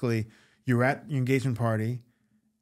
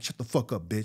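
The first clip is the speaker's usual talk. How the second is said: Crazy Eyes voice; 3 semitones lower, 4 dB quieter than usual. Retold or imitated. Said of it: "That's how Crazy Eyes would say it".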